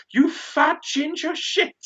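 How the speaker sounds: high, loud, slow heckling yell; retold losing it. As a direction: bellow the insult as a re-enacted outburst. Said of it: "I just lost my shit".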